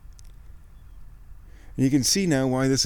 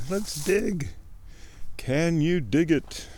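higher, cheery little marmot; a marmot ready to dig, higher and playful; 4 semitones higher, slower than usual. Pretend. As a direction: squeak it out like an eager marmot. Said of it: "said the Matis".

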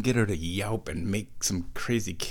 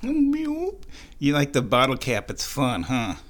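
slow pet talk; 2 semitones higher, slower than usual. Real, not acted. Talking to the cat.

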